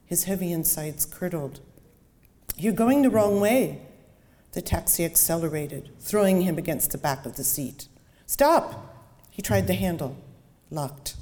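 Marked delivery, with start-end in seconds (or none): 2.6-3.8 alarmed. Acted. Passenger realizes wrong route. 8.3-8.9 high, loud panicked yell; shout. Acted. Trapped passenger yells.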